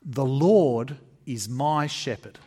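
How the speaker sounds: slow, proud declaration, stressing "Lord"; boastful. Retold or imitated. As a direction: proclaim "The Lord is my shepherd" like a king's boast, slowly. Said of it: "he makes a boast".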